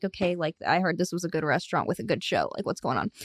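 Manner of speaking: mildly puzzled, under your voice; muttered diner complaint. Acted. Diner waiting for a waiter, muttering low.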